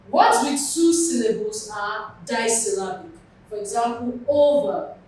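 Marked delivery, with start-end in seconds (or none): 4.3-4.9 OVER with a loud O, lighter ver; over set apart, front-stressed; stress on first syllable. Shown as a demonstration. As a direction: hit the O of over. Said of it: "That's why the O is written in capital".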